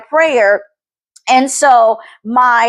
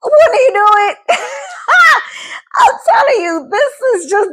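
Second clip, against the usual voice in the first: crying shout; 13 semitones higher than usual. Real, not acted. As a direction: break down crying out in gratitude. Overcome, crying out about God.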